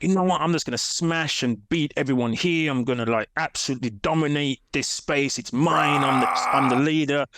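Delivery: mock brash confidence, understated; cocky gym attitude. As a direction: replay your old cocky self, lightly. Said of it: "So that was my attitude".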